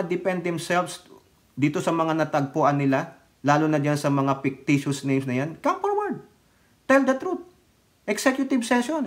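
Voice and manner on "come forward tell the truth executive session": high mocking call to come forward; mock pleading. Commentator taunting the senator, high mocking call.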